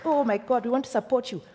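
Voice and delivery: high, gushing and patronising; loud, gushing mock support; condescending quote. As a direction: mimic fake enthusiasm. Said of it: "It's condescending".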